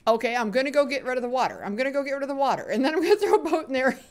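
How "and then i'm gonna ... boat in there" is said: fast, high, laughing through words; high tittering delivery; giggling. Real, not acted. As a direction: rush it out and dissolve into giggles. Giggling over the boat plan.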